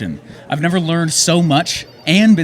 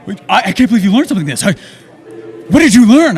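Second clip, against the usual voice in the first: mock disbelief; 3 semitones higher, 4 dB louder, faster than usual. Acting out surprised attendee.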